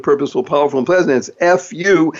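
normal talking voice

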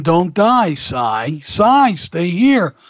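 high-pitched, urgent retold begging; imitated pleading yell. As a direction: plead insistently, imitating a desperate wife. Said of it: "was yelling at him".

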